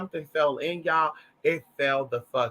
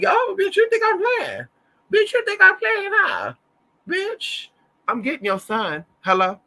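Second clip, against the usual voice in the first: much higher, louder, hammed-up threat; mock confrontational yell; 14 semitones higher, 4 dB louder than usual. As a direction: bark it like you're picking a fight.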